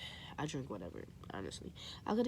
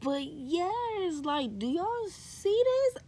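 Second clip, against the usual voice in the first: thrilled; 11 semitones higher, 5 dB louder, much slower than usual. Real, not acted. Showing the book, thrilled.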